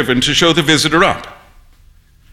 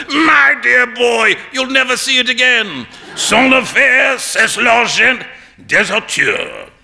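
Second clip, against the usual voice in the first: roaring with laughter; 7 semitones higher, slower than usual. A narrator's reading. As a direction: laugh at your friend's blunder. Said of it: "burst into a roar of laughter".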